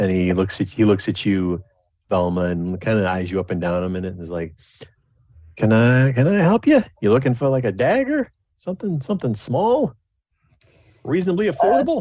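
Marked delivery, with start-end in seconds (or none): 5.6-12.0 very high, swooping merchant hawking patter. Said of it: "the hawking voice".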